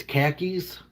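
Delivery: Boston-accented KHAKIS for car keys. Shown as a demonstration. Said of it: "in a Boston accent".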